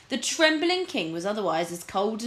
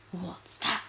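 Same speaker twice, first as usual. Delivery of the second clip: whisper; 6 dB quieter than usual. Acted. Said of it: "he whispered to Spittleworth".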